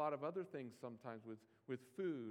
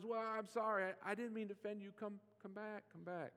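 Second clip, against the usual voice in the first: apologetic pleading; 6 semitones higher than usual. Retold or imitated. Pastor imagining begging offended people back, lightly apologetic. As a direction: beg them back with a sorry. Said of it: "tempted to apologize".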